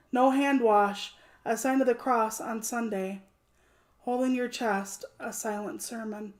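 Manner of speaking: measured, deliberate poem recital; poetry reading. Acted. Author reading her debut poem to stream viewers, measured recital.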